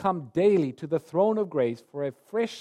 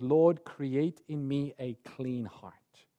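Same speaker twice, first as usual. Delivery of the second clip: slow, a touch softer prayer of remorse; repentant plea; 4 semitones lower, 4 dB quieter than usual. Acted. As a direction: pray it slowly, heavy with regret. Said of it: "he cries out to God".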